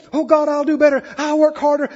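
high, strained begging prayer. Acted. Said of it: "Begging and pleading".

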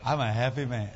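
low, understated imitation of dad; imitating contented dad. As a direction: say it low, as dad's simple answer. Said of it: "He just laughs".

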